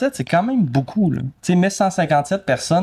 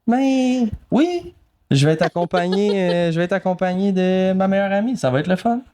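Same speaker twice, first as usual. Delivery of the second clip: higher-pitched, playfully delighted lilt; playful gushing; 6 semitones higher than usual. Pretend. Podcaster answering co-host about a day's drive, playful high-pitched gushing. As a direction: gush about it in a high, teasing voice.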